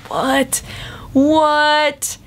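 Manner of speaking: high, rising disbelief; baffled double take; incredulous what. Retold or imitated. Reacting to odd posts.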